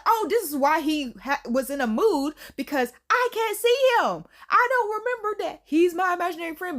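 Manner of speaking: mildly acted-out upset girl; upset realization. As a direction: play a touch of dismay. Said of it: "she's so upset".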